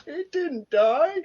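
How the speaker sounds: very high, loud, drawn-out character voice; hammed-up reply. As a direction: stretch it out in a squeaky put-on voice. Acted reply in Simpsons scene.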